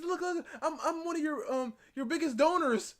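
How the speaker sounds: high, loud voice cracking into laughter; laughing through it. Retold or imitated. Streamer acting out a fan at a date, laughing. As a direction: play the eager fan while cracking up. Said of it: "he says".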